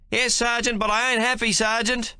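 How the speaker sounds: put-on high, whining young soldier's voice; unhappy young private. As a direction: grumble to the sergeant like a scared recruit.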